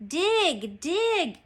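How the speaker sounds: high-pitched repeated command; storybook captain's yell; crying out an order. A narrator's reading. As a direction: cry it out urgently, rising on the repeat. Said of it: "cried Captain Bones".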